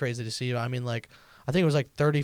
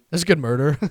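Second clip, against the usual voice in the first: laughing; 3 semitones higher, 8 dB louder, faster than usual. Real, not acted. Laughing, repeating own line.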